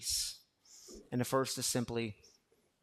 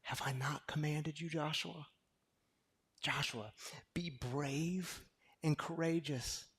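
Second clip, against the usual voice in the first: God's gentle charge; 3 semitones higher than usual. Retold or imitated. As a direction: speak courage gently to a frightened man. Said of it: "And God says this to Joshua".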